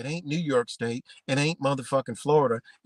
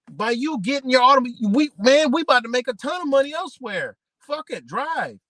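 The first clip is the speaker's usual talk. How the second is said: higher, louder hammed-up official voice; mock officials; 7 semitones higher, 5 dB louder than usual. Officials pushing automobiles, hammed-up higher voice. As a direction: hype them into buying cars. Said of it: "They were like".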